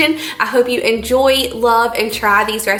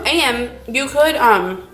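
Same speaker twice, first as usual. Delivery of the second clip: mouth full; 3 semitones higher, much slower than usual. Real, not acted. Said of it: "sorry, I'm talking with a mouthful".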